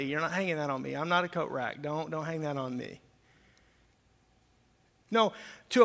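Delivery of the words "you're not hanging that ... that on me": mock refusal.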